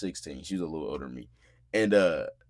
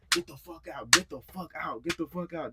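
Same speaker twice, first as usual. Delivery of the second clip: pitched-up, held-back shouting; imitated yelling; 6 semitones higher, 5 dB quieter than usual. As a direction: act out a shout without the volume. Acts out yelling, away from mic.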